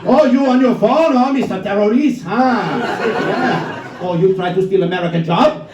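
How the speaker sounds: a hint of a taunting redneck; mocking redneck heckler. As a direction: jeer at him like a drunk patriot. Redneck heckler voiced in bit.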